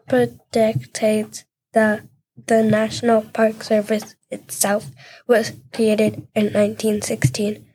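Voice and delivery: flat robot monotone. Pretend. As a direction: talk like a robot, even and mechanical. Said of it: "Why do you sound like a robot?".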